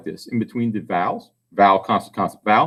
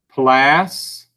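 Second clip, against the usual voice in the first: 'Plastic' as 'plas ... tic', long gap; syllable by syllable. Shown as a demonstration. Teacher dictates for spelling, 'Plastic' syllable by syllable. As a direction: slowly break 'Plastic' into two separate halves. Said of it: "See if you can spell it".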